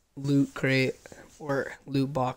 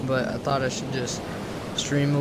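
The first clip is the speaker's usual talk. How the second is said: hoarse, losing his voice from illness; sick voice. Real, not acted. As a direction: talk through a sore, fading voice. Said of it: "my voice sounds kinda weird 'cause I'm sick".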